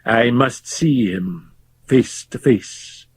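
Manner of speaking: slow, hushed whisper of resolve; breathy whispered vow; sudden decision. Acted. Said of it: "he said with sudden decision".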